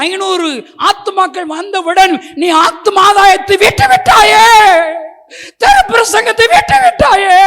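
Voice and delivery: loud, high pleading rebuke to the church; preaching at full force. Acted. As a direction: thunder it at the congregation, building as you go.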